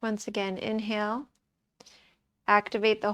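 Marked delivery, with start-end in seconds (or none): 0.0-1.3 calm, softened yoga-teacher voice; quiet, settled meditation delivery; guided relaxation. Acted. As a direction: ease them into the next breath gently. Leads a relaxation.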